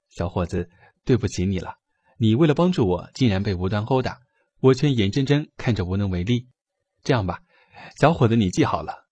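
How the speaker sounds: apologetic. Acted. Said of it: "歉意地说道".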